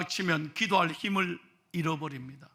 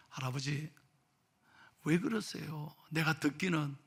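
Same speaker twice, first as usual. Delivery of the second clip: soft, low, concerned questioning; hushed pastoral inquiry; gentle pastor; 4 semitones lower, 8 dB quieter than usual. Retold or imitated. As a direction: ask quietly, as in private counsel. Pastor gently questions old man privately.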